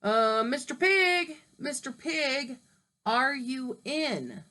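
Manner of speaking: slow, drawn-out polite call; calling sweetly. Acted. Wolf politely calling at the stick house, slow call. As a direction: coax the pig to answer. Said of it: "So I called".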